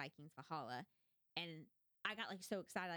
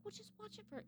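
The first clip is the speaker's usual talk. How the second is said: lightly voiced husband, pitched higher; mock husband voice; 14 semitones higher, 6 dB quieter than usual. Husband coaxing her to keep watching, mock higher voice. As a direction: imitate him coaxing her to keep going. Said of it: "He's like".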